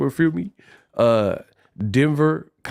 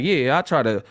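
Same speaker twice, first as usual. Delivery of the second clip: mock New Orleans talk; 3 semitones lower than usual. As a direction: imitate the locals, low and lazy. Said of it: "they be like".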